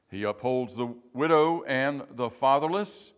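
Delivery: measured, solemn Bible reading with deliberate pauses; formal scripture reading, firmly projected. Acted. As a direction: read the psalm out to a congregation, phrase by phrase. Reads the psalm aloud.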